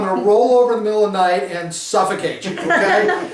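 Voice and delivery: laughing through it. Retold or imitated. Mock self-loathing rant to girlfriend.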